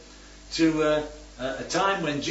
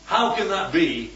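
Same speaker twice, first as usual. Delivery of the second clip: skeptical question meaning no; doubting it can happen at all; doubtful; 2 semitones higher than usual. Shown as a demonstration. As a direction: Zachariah doubting the angel, skeptical. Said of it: "but they say them differently".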